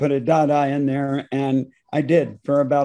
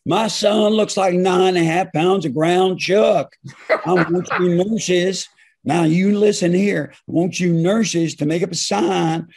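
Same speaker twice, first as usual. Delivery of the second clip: father character; 3 semitones higher, 4 dB louder than usual. Retold or imitated. Proud father orders the nurses around, a lightly voiced blustering dad. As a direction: play a lightly done bossy Dallas cop father. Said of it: "I play my father, I play the character".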